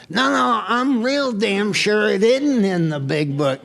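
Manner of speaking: stubbornly outshout her in the argument; insistent retort. Retold or imitated. Retold argument with wife, insisting.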